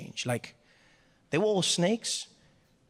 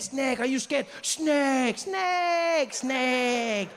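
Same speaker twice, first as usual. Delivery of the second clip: high, jeering Frenchman impression; mocking French accent; 9 semitones higher, much slower than usual. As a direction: taunt in French accent, stretching each word. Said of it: "He's like".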